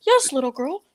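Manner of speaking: put-on voice rising to a high, loud name; hammed-up condescending answer; Fraser Smith. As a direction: impersonate an impatient older acquaintance. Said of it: "I could do Fraser Smith".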